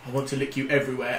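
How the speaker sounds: soft, low seductive murmur; a hint of breathy come-on; mock sultry murmur.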